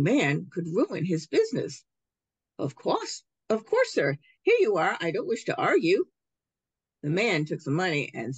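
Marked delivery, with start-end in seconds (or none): 2.6-6.0 nervous placating shopkeeper. Acted. Shopkeeper placates angry customer.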